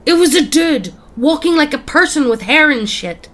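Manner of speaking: high, loud outburst; snapping. A narrator's reading. Dan to doubting friends in the car, snapping loudly. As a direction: snap back, frantic to be believed. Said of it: "He snaps a bit".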